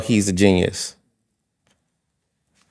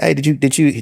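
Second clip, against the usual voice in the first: pitched-up eager greeter voice; imitating an excited promoter; 6 semitones higher than usual. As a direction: gush over them like a hyped host.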